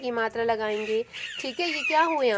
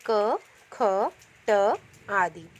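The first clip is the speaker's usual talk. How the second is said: ख and ट said very slowly and louder; slow, spelled out; 2 semitones lower, 4 dB louder, much slower than usual. Shown as a demonstration. Teacher to pupils, sounding out consonants slowly. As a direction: sound out each letter slowly. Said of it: "जैसे इसमें example बताए गए हैं".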